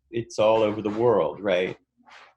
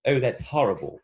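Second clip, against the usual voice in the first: lightly British Oh, that's horrible with short rounded o; hint of British accent, horrible with clipped o; British person saying that's horrible; 3 semitones higher than usual. Shown as a demonstration. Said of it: "a British person would say".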